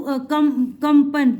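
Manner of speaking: कम then कंपन, slowly built up; slow breakdown. Shown as a demonstration. Teacher to child, building कंपन from कम. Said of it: "पा क्यों".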